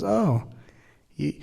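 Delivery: lightly voiced divine reply; voice of frustration. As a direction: speak as the gentle divine agent. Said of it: "as an agent of the divine, it goes".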